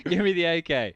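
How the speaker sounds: laughing pleading player voice; voicing the player. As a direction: beg for the gun, laughing.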